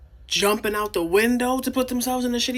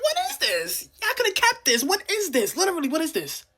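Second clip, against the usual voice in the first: exasperated disbelief; 7 semitones higher than usual. Real, not acted. Exasperated at the show.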